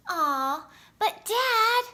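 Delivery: rising, pleading whine to Dad; whining plea. Acted. A boy begging his dad for a bike, whining. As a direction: beg like a disappointed kid.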